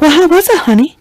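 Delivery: high, sugary mom asking how it went; sing-song mom greeting her daughter; mom's sweet voice. Retold or imitated. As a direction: chirp it up high like a doting mom.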